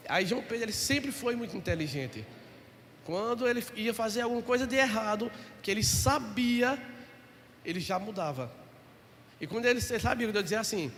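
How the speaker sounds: ordinary talk, nothing marked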